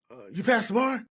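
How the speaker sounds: high raspy courtroom impression; Judge Frasca. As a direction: imitate a judge rasping out a doubtful question. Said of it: "He had this raspy voice".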